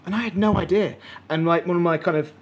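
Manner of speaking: talking through burps; swallowing back a burp. Real, not acted. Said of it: "sorry, I keep burping".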